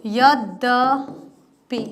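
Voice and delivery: यद्यपि very slowly, split as यद्-द-पि; dictation-slow यद्यपि with gaps between syllables; sounded out. Shown as a demonstration. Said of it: "ऐसे ही यद्यपि भी लिखा जाता है".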